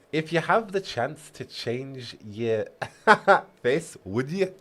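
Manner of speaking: slow, tentative Scottish accent breaking into laughter; Scottish accent attempt. Shown as a demonstration. Reader trying out the elf's voice, shaky attempt at Scottish accent. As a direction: try a Scottish accent and crack up. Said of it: "Make strive have a Scottish accent".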